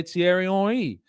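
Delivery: Henry said "on-REE"; French pronunciation. Shown as a demonstration. Thierry Henry said the French way. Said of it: "If he pronounces it Henri".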